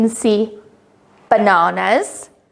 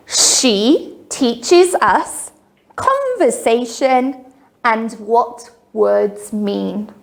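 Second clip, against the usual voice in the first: sing song rote recitation; slower than usual. Shown as a demonstration. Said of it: "Can you repeat that after me?".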